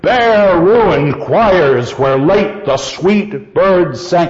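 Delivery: slow, with heavy beats on "Bare ruined choirs" and "sweet birds sang"; strong accents. Shown as a demonstration. Teacher shows strength in the line, "Bare ruined choirs" firmly accented. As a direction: stress nearly every word, "Bare ruined choirs where late the sweet birds sang". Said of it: "there's strength in that line".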